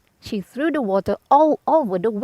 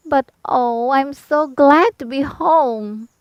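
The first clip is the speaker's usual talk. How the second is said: put-on young Dorothy, relieved; 4 semitones higher, slower than usual. Dorothy voiced after her return.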